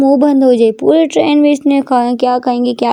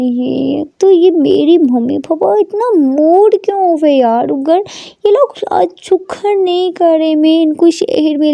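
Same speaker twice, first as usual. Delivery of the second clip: inner thoughts; 4 semitones higher than usual. Acted. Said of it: "बोलती है मन में".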